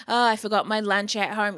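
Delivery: loud, exasperated mock complaint; mock exasperation. Worker having a bad day forgot lunch, mock exasperation. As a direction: act out a bad-day grumble.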